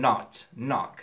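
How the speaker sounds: "not, knock" with British rounded short o; British accent. Shown as a demonstration. Teacher contrasts it for students, British accent on "not, knock". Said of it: "خۆمان بە ئاکسەن بە بریتانی بێ".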